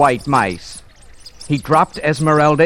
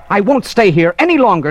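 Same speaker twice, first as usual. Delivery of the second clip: tearful; 5 semitones higher, 5 dB louder, faster than usual. Acted. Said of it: "said the girl in a tearful voice".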